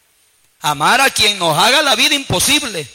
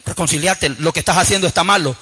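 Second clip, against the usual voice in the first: groaning soul; 5 semitones lower than usual. Acted. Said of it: "el alma está gimiendo. Y el alma dice".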